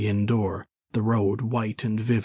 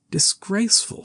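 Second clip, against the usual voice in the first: much higher, scandalised; shocked echo; 11 semitones higher than usual. Acted. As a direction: gasp it out, shocked. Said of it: "said Mister Henfrey".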